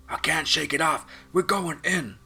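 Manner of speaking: high, loud call over the radio, spiralling down; panicked call. Acted. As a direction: shout it as the drone goes down. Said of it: "The drone pilot called out".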